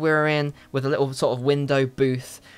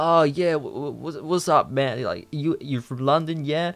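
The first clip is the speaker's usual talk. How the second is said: stoned guy voice. Retold or imitated. High guy voiced in story.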